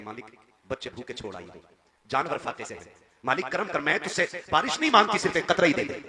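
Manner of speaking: rising into a loud, high lament; weeping prayer. Acted. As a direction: plead with God through tears. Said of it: "रोके कहती".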